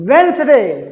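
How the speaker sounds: "Wednesday" as WENZ-day, first d silent; "Wednesday" said wenzday; correct pronunciation. Shown as a demonstration. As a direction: model "Wednesday" without the d. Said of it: "it is pronounced".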